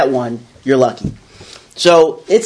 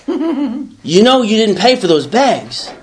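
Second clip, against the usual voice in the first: slow, a touch higher, teasing conscience; nagging inner voice; 4 semitones higher, slower than usual. Retold or imitated. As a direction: let the little voice needle him slowly. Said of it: "and the voice goes".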